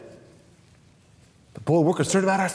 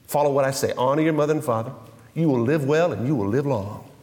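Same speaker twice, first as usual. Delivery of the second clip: God speaking; 8 semitones lower than usual. Acted. Preacher voices God.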